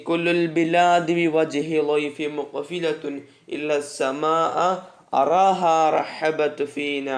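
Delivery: slow, measured poem reading; verse recitation. Acted. Teacher reading an Arabic poem to students, slow recitation. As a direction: recite the line slowly, stretching long vowels.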